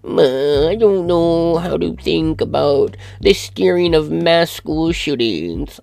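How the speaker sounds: high, slow, drawn-out mock voice; mocking Eric Weinstein. Reading Eric Weinstein's tweet back in a high, slow mocking voice. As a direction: parody him as pompous and slow. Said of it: "this vapid fuck responds with".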